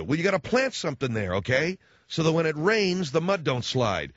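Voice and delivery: put-on Minnesota accent. Father-in-law advising to plant something on the hill, Minnesota accent. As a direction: imitate an in-law giving advice in a Chicago-Minnesota accent. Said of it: "Minnesota accent".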